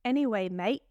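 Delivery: Aussie sign-off, badly faked; lightly put-on Australian lilt; attempted Australian accent. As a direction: tack it on in mock Australian. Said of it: "mate" ... at the end of the sentence".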